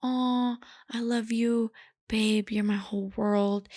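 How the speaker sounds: mock movie-lover tenderness; slow down into a gushing love confession; lightly hammed-up romantic line; sweet, romantic. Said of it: "sweet, romantic".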